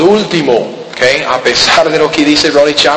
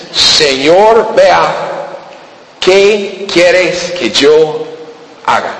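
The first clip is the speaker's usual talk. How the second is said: trembling plea; 3 semitones higher, much slower than usual. Acted. Saul fallen on the road, asking the Lord what to do, slow and pleading. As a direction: beg slowly, voice lifted in awe. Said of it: "Temblando dice".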